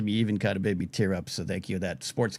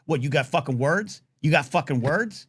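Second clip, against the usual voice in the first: confrontational challenge; 3 semitones higher than usual. Retold or imitated. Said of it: "my battle cry in real life".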